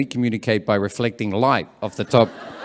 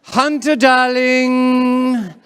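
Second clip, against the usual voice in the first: calling out; 10 semitones higher, much slower than usual. Acted. Mums calling their kid at the park, calling out. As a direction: sing out to a child across the park. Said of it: "they love calling that name out".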